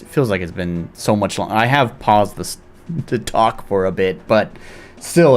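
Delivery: usual speaking voice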